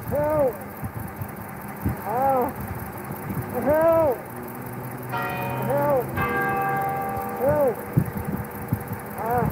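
calling for help. Real, not acted. Repeated calls for help while held.

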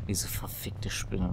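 slow, breathy curse; slow angry whisper. Real, not acted. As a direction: whisper it through frustration. Frustrated at spider.

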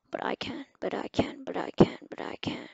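whispered, building glee; excited whisper. Real, not acted. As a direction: hush it like a secret thrill. Excited secret discovery.

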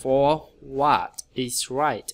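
very slow word-by-word model sentence; deliberate teaching pace, gaps between word groups; phrasing demo. Shown as a demonstration. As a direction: spell out "Stand up for what is right" slowly with pauses. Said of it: "Nghĩ chỗ này".

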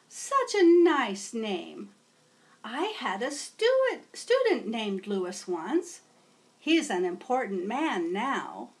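put-on old teacher welcoming a new student; kindly teacher. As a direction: greet a new pupil warmly. Teacher chats fondly.

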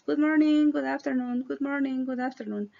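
Good morning and good afternoon run smoothly together; linked words. Shown as a demonstration. Teacher modelling fluid linked speech. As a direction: say it fluidly, no breaks. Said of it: "Traten de ligar las palabras".

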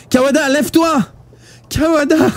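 very high, panicked cries; frantic shout. A narrator's reading. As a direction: yell to rouse a dying friend. Shaking a dying friend awake.

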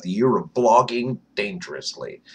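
"blogging" punched out, set apart from the phrase; stress on blogging. Real, not acted. Vlogger signing on with the day count, stress on "blogging". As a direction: lean hard on the word "blogging". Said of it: "I put the emphasis on blogging".

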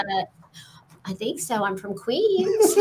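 put-on a touch of Queens New York accent. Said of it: "Could you do a New York accent".

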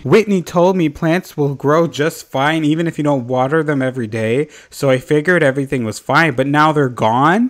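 hammed-up British accent, lilting up and down; badly faked British voice for a character's lament; horrible British accent. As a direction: put on a bad British accent. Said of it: "That is a horrible accent".

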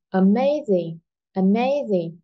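"amazing" with a strong "ma"; teacher's model of "amazing", weight on "ma", light falling "zing"; stress on second syllable. Shown as a demonstration. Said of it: "Trọng âm rơi vào âm tiết số hai". (nhấn âm hai "ma" trong "amazing")

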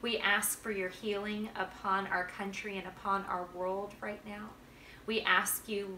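a hushed, earnest prayer voice; heartfelt morning prayer for the school. Acted. School morning prayer led aloud.

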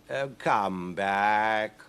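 very slow, drawn-out cat call. Acted. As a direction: coax her back lazily. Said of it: "called the cat".

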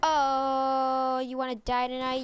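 loud, fast challenge; loud taunt. Real, not acted. Gamer yelling a dare at an enemy player, loud taunt.

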